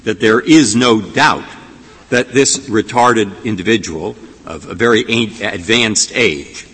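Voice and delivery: sarcastic incredulity, hitting key words like "agreed". Real, not acted. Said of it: "I say that with some sarcasm in my voice".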